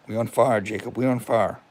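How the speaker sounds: loud joyful cheer; excited shout. Real, not acted. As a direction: hype it up loudly. Celebrating page back.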